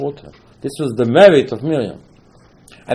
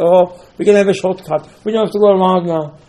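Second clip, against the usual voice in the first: higher, louder imitation of excited people; mock eager crowd; 6 semitones higher, 5 dB louder than usual. People telling each other of a shortcut, mock eager. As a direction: voice them piping up eagerly.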